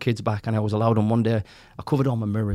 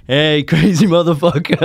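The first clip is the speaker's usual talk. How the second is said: lightly voiced, slow and loud hype greeting; Goggins greeting; 6 semitones higher, 6 dB louder, slower than usual. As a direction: boom out a mock hype greeting, slower. Idol greets him, voiced quote.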